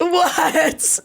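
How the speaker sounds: high, drawn-out what; high-pitched surprised exclamation. Real, not acted. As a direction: squeal it in playful disbelief. Mock shock at teased funny story.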